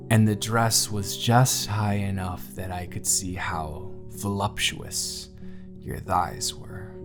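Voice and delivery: slow, hushed ending; sensual lingering. Acted. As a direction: draw the words out admiringly. Lingering, sensual recollection of partner.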